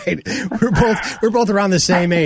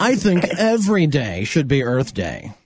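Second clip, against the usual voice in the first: slow, lofty self-important pronouncement; pretentious preachy voice; slower than usual. Acted. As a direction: speak like a smug moral preacher. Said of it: "this is my pretentious, preachy voice".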